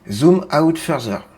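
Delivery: slow, drawn-out American-accented command. Shown as a demonstration. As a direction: stretch the words in an American accent. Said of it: "l'accent américain".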